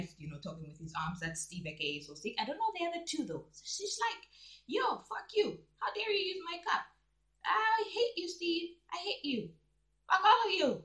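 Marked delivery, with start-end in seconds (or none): 4.7-10.8 high-pitched pretend tirade, half laughing by the end; mock angry rant. Presenter voicing woman yelling at Steve over her cup, mock anger. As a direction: dub an outraged woman, much higher.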